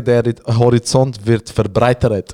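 slow, drawn-out, self-important proverb; pompous slow aphorism; mock-wise saying. Shown as a demonstration. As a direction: savor it like a wise quote. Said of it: "Oder wie ich so gut sage".

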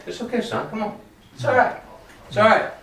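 lightly acted, softly reassuring dad; reassuring father. God as father answers a worried child, gently reassuring. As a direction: soothe a son with gentle, coaxing words.

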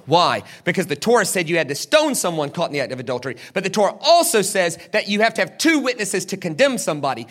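usual speaking voice

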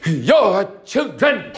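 put-on slow, in a Tsonga accent. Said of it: "They said".

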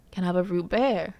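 'root beer' with the final r dropped, like 'root beh'; deliberate mispronunciation. Retold or imitated. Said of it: "say the word wrong on purpose".

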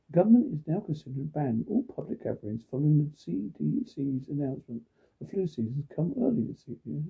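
steady newsreader delivery; news read. Acted. Newsreader to listeners, measured bulletin read.

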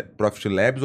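"Labs" said the English way, as "lebs"; English pronunciation. Shown as a demonstration. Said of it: "Labs em, em português ou Labs em inglês". ("Labs" com pronúncia inglesa, soando "lébis")

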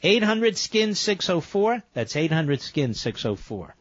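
upbeat radio ad read; infomercial. Acted. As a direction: pitch it like a sales spot. Host reads sponsor ad.

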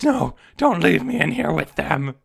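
cling to them, begging; desperate begging. Acted. Patient begs again as doctors leave.

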